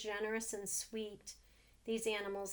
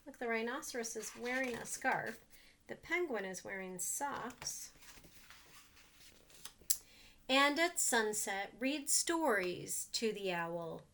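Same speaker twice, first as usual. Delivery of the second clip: put-on reading to children. A narrator's reading. Reads picture book to children.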